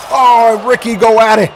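lively wrestling commentary with punched words; excited play-by-play. Acted. Commentator calling Ricky's attack on the outside, excited. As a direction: call the brawl with rising excitement.

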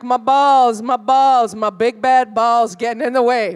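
loud mock guy complaining about his balls; mock whiny guy. Comic mocking men in general, a loud whining guy. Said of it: "guys are always like".

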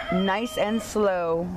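drawn out, slow; slow it right down; slow and calm. Acted. Farmer calms animals.

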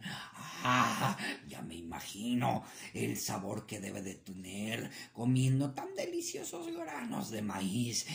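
a hint of a scheming coyote, low and gloating; sly coyote. Coyote eyeing the plump rabbit, lightly voiced gloat.

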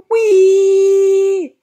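long, loud, high squeal; teasing squeal. Acted. Dog jumping down through the roof, squealing teasingly. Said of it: "he squealed".

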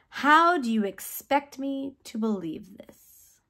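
slow incredulous question, each word drawn out; doubtful question. Retold or imitated. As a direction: ask slowly, as if it cannot be true. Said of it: "Zechariah asked the angel".

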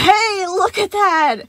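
loud, high, slow; nervous interruption. A narrator's reading. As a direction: cut in nervously. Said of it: "Gregory interrupted nervously".

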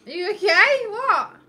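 loud, high, worried question; surprised concern. Real, not acted. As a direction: ask in alarmed surprise. Partner suddenly bursts out laughing.

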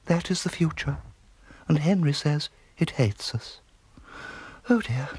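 a great aunt's high, dismayed musing; genteel great aunt. Acted.

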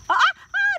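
sharp high "ah ah ah"; loud warning. Real, not acted. Stopping child picking unripe.

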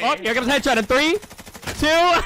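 mildly hammed-up confident callout; quoting Dan. Mocking what teammate Dan said mid-game, mild cocky imitation. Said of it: "Dan just said".

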